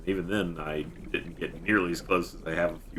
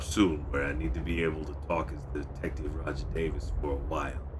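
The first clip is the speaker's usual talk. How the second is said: mildly gruff detective, lower at the end; hard-bitten detective voice; 3 semitones lower, 6 dB quieter than usual. Shown as a demonstration. Streamer explaining to chat in his detective voice, lightly gruff. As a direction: keep the tough cop voice going. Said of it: "I think this is what I'm going with".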